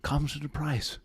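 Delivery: a hint of wildlife narrator; hushed nature documentary.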